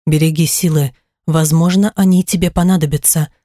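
soothing husband. Acted. Husband soothing his wife.

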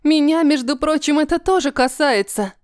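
can't hold it in any longer; indignant outburst. Acted. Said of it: "Не сдержалась Вивьен".

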